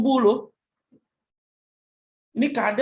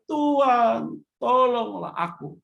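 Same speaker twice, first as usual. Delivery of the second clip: mild cry for help; 3 semitones higher, much slower than usual. Acted. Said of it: "lalu berteriak".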